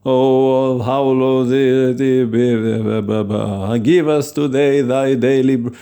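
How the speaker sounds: stumbling, drawn-out churchy recital; mock pompous prayer. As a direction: ham up a stuffy liturgy. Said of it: "these fancy words".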